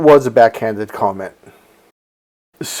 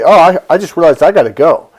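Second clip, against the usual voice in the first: a hurried, no-nonsense excuse; quick abrupt exit; 4 semitones higher, 3 dB louder, faster than usual. Shown as a demonstration. Cutting off the narcissist to leave, fast and abrupt. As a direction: rattle it off fast and bail.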